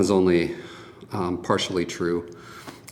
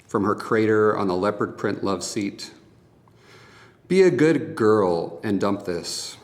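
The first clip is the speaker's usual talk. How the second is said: measured spoken-word poem delivery; poetry reading. Acted. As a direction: read it as a poem, pausing between images. Reads own poem aloud.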